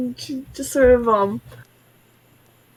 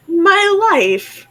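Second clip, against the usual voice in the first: mock crying; 7 semitones higher, much slower than usual. Player overwhelmed by reward.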